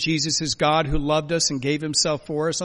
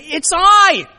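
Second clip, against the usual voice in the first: high, impassioned proclamation; Jesus; 13 semitones higher, 5 dB louder, slower than usual. Acted. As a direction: call out fervently over the storm. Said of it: "hear the voice of Jesus saying".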